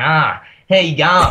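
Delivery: lightly hammed-up Ocker Australian; Ocker Australian accent. Greeting listeners to make amends, mock Ocker Australian accent. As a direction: put on a touch of broad Ocker Australian. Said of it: "talk like an Ocker Australian".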